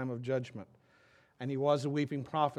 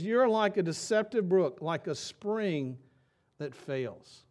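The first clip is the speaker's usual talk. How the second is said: louder, higher, then slowing and fading on the spring that fails; accusing prophet; 4 semitones higher, 5 dB louder, slower than usual. Retold or imitated. Pastor quoting Jeremiah to the church, an accusation that fades out. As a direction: hurl the accusation, then let it sag. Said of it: "He says".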